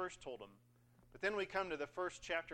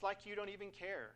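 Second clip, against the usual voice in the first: higher, hint of sorority-girl pout; 4 semitones higher than usual. Worshipper telling God he doesn't care, light sorority-girl whine. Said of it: "sorority girl voice for some reason this morning".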